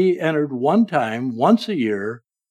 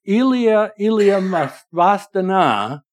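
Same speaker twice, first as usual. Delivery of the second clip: voicing Jesus's anguished cry, raised high; loud cry out; 5 semitones higher than usual. Preacher voicing Jesus crying out on the cross, raised cry. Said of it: "Jesus cried out in a loud voice".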